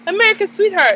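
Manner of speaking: high, bright mock gush of "America's sweetheart". Gossiping about Brandy, high mock gush. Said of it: "She was all like".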